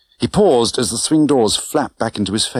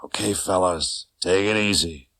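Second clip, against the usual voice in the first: soft whisper; 5 dB quieter than usual. Acted. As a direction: whisper it softly with threat. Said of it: "whispered softly".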